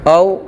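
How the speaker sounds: "औ" drawn out as a clean demonstrated vowel; corrected drill sound. Shown as a demonstration. Teacher correcting the reading, demonstrating "औ". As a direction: model the corrected "औ" clearly. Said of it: "इसको पढ़ेंगे औ".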